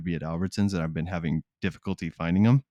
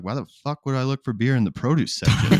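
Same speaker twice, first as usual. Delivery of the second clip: laughing; 5 semitones higher than usual. Retold or imitated. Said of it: "I was like".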